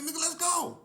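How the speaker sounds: very high, loud hammed-up bravado; fake-tough call. To K P before the fight, loud mock-aggressive bravado. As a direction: act hostile to hide fear. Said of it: "trying to be all hostile and aggressive".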